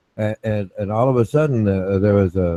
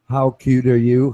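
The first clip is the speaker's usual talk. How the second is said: mock teasing; 3 semitones higher than usual. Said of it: "Right, capital letters".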